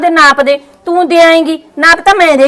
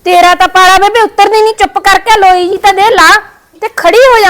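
raised, impatient order to an elder; bossy scolding; 3 semitones higher than usual. Acted. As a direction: scold her up onto her feet. Daughter-in-law orders mother-in-law up.

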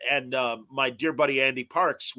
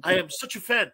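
put-on Sergio's heavy accent; 4 semitones higher, 4 dB louder, faster than usual. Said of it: "because of Sergio's heavy accent".

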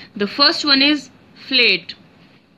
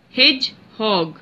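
Hedgehog said slowly as hedge-hog, two beats; slow, syllable by syllable; slower than usual. Shown as a demonstration. Teacher to students counting syllables, spaced slowly. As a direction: tap out each syllable of Hedgehog. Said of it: "Two syllable word".

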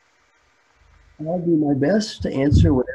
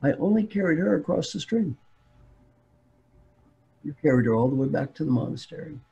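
lightly voiced drowsy calm; mild, unhurried acted sleepiness; sleepy monk; 3 semitones higher than usual. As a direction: answer unbothered, half awake. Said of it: "The sleepy monk says".

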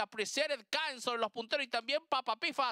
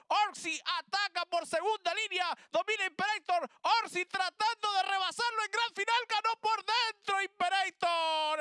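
excited; 6 semitones higher than usual. Real, not acted. Race finish, rising call.

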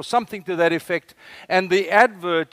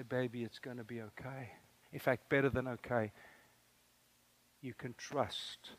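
much softer, close and intimate, to a frightened daughter; hushed whisper; 4 semitones lower, 14 dB quieter than usual. Retold or imitated. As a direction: hush it like a secret between father and child. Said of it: "and I whisper because these are secrets between us".

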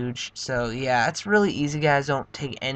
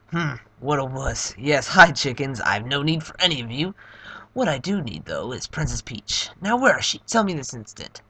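Bowser voice. Acted. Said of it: "Let me get my Bowser voice ready".

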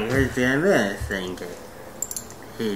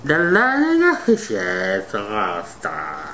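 slow, mangled words through a cheek stretcher; straining to talk with lips pulled wide; lips stretched wide; 4 semitones higher, slower than usual. Real, not acted. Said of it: "Are you really trying to say it?".

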